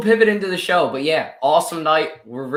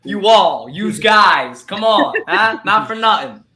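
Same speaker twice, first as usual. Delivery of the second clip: put-on playful Philly accent; hammed-up Philly yous guys; 5 semitones higher, 4 dB louder, slower than usual. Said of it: "We're from Philly".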